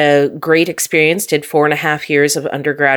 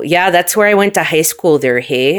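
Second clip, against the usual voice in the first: put-on playful Upper Midwest accent; Minnesota accent. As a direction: slip into Minnesota talk, with a folksy tag question. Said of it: "you got the good accent".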